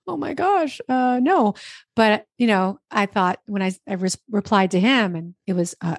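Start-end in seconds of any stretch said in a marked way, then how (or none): 0.1-1.5 higher, breathless mock panic; freaking out. Retelling her shock at Hal's email, mock excited. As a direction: act the thrilled panic of a surprise email. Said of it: "I was, like, freaking out".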